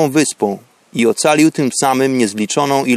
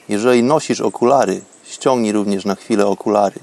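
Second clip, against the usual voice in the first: guided meditation; 4 semitones lower than usual. Acted. Prowadzi medytację oddechową. (spokojny głos medytacji)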